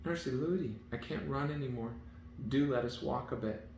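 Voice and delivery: put-on a high, pleading little girl; lightly voiced tired child. A narrator's reading. Princess begging her nurse to walk, high and pleading. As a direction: beg to stop running.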